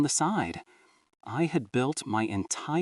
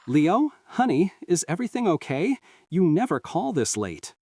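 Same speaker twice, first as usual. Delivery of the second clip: higher, a lightly voiced sleepy mom on the phone; the mother just woken by the call, gently concerned; drowsy warm mother; 7 semitones higher than usual. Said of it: "Her voice was warm, a little fuzzy".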